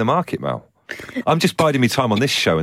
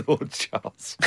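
Lord Charles impression; 3 semitones higher, 8 dB quieter, much slower than usual. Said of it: "I'm doing an impression of Lord Charles".

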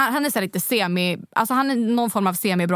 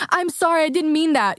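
higher-pitched imitation of an apologetic man; retold plea, pitched up; pleading apology; 6 semitones higher than usual. Man running after her to apologise, pleading.

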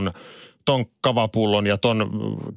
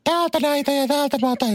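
put-on much higher, bright little boy explaining eagerly; clear boy's voice. Little boy at the salad bar telling his parents, high excited child's voice. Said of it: "kirkkaalla pojan äänellä".

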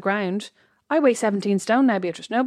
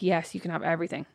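soft, meek, eager-to-please handover; quiet mock compliance; meek surrender; 4 semitones lower, 8 dB quieter than usual. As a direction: give it all up sweetly and quietly. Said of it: "I'd be like".

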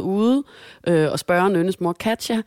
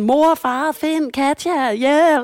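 higher, louder frightened calls; calling for help; 7 semitones higher, 3 dB louder, much slower than usual. Retold or imitated. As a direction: cry out to the parents for help. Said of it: "råber stadig sådan". (høje, bange råb om hjælp)

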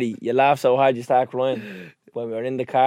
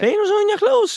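surprised; 3 dB louder than usual. Real, not acted. Shocked that cleaners do ironing.

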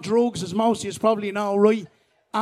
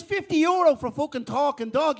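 higher, rising disbelief at the price; incredulous question; 4 semitones higher than usual. Acted. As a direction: query the price as if it can't be true. Buyer questions the surprisingly low price.

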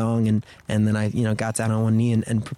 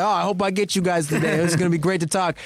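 New York guy; 6 semitones higher than usual. Retold or imitated. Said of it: "He's like".

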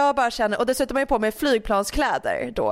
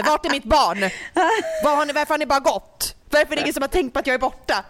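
sulky complaint; 5 semitones higher, faster than usual. Retold or imitated. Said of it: "jag är på så jävla dåligt humör".

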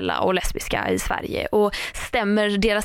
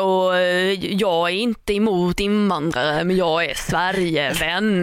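lightly voiced slow politician drone; a hint of Åkesson, slow and measured; Jimmy Åkesson impression; 2 semitones lower, slower than usual. Imitating Jimmy Åkesson badly, slow measured politician voice. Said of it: "det är ju Jimmy Åkesson".

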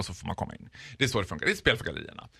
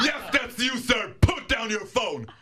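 mock frightened reply; 8 semitones higher, slower than usual. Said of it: "Så jag bara".

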